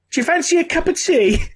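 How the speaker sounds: high-pitched little grot voice; high grot squeak. Acted. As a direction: pipe it up high, like an eager goblin offering a drink. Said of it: "the grot goes".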